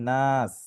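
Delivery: "নাস" as one closed syllable; waqf stop. Shown as a demonstration. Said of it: "ওয়াকফ করলে".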